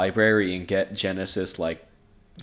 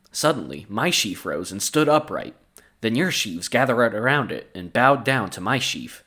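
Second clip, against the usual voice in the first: measured storybook narration with clear phrasing; scripture read-aloud. A narrator's reading. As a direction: read the Bible passage aloud. Reads the Bible story aloud.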